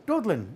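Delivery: "Dublin" with a d for the b, "Dudlin"; puppet's mispronunciation. Acted. Puppet naming his hometown, "Dublin" said as "Dudlin". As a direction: say "Dublin" as "Dood-lin". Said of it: "say it like me".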